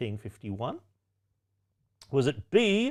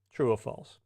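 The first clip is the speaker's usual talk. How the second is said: a soft unvoiced whisper of the question; whispered prompt; 2 semitones lower, 4 dB quieter than usual. Real, not acted. Quiz host whispers the question to the players, whispered. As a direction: breathe the prompt like a secret.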